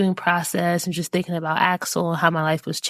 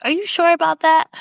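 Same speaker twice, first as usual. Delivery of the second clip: doubtful parent; 3 semitones higher than usual. Retold or imitated. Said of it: "sometimes you're like".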